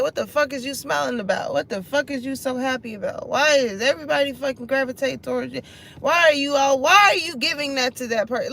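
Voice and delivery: acted-out jealous griping, rising to loud; mock indignation. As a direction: fire off the questions in exasperation. Voicing a resentful onlooker's complaint.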